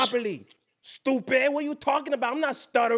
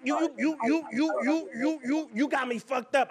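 mock stutter; 3 semitones higher, 11 dB louder than usual. Stuttering character keeps stammering.

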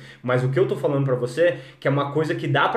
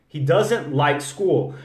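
He doesn't like school. said slowly with doesn't stressed; slow model sentence; slower than usual. Shown as a demonstration. Teacher modeling the sentence slowly for students. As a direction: spell out each word for the learner. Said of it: "Às vezes você ganha um tempo".

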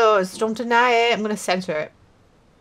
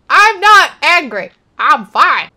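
louder, laughing through a fake-calm denial; 4 semitones higher, 7 dB louder than usual. Real, not acted. Gamer laughing at himself, insisting he's not angry. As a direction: laugh it off while obviously furious.

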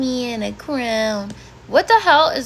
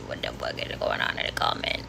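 breathy whisper, no voice at all; whispered disbelief; 7 dB quieter than usual. Real, not acted. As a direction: hush it like a shocked aside. Baffled by comments, whispered.

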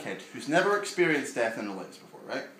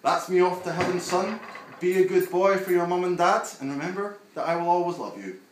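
light put-on Yorkshire granddad, higher; a hint of a Yorkshire grandad, fond and cheery; mock Yorkshire grandad texting the kid; Yorkshire accent; 6 semitones higher, 6 dB louder than usual. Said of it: "I don't know why he's from Yorkshire".

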